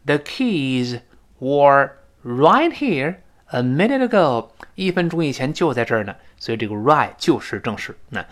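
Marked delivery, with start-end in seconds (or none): 0.1-4.5 slow, drawn-out model reading; 示范朗读. Shown as a demonstration. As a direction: read it out slowly for learners. Teacher models example sentence. (放慢示范朗读)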